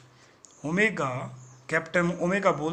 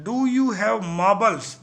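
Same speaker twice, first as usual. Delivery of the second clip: angry; 5 dB louder, much slower than usual. Acted. Angry boss questions crew.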